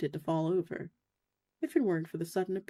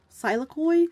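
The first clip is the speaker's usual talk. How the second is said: high, louder anxious call; 7 semitones higher, 6 dB louder than usual. Acted. Paladin calls to her injured friend, worried. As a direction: call the name, hoping for an answer. Calling out to the creature.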